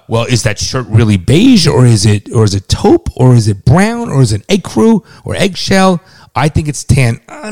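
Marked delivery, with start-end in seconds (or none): 0.1-6.0 louder, slow, fussy mock question; mock nitpicking. Father mocking his son's hair-splitting, loud and fussy. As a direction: ham up a pedantic son splitting hairs over colours. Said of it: "and you're like, eh".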